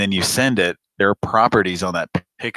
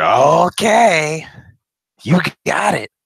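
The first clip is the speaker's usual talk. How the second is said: high mock voice; 10 semitones higher, 6 dB louder, much slower than usual. Mock reply to picture request.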